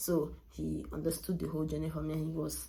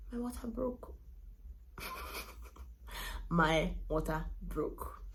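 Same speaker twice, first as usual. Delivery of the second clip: dramatic reveal; 4 dB quieter, slower than usual. Real, not acted. Mother revealing her water broke, dramatic hush. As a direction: drop it like a bombshell.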